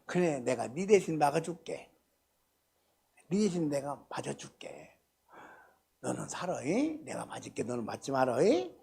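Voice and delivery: put-on hushed, gentle promise to a child; tender comfort. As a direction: soothe them softly like a parent shielding a child. Preacher voices Jesus comforting.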